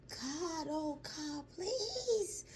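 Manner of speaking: mild mock scream. Retelling the mother's prayer in a high mock plea. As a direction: pitch the plea way up without volume. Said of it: "Screaming at the top of her lungs".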